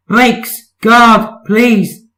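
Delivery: high urgent shout for the guard; urgent call. Acted. Percy calling urgently for brakes.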